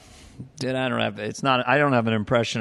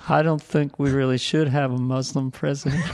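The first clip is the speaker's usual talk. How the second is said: Ben Carson as Garth. Retold or imitated. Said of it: "Ben Carson basically sound like Garth".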